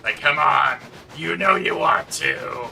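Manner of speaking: loud, slow tempting villain voice; Green Goblin voice. Pretend. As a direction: coax like a cackling supervillain. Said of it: "William Dafoe and the Green Goblin".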